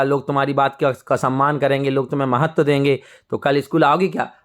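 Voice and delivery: gently reassuring principal, understated; loving. Acted. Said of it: "इतने प्यार से बोला ही नहीं था".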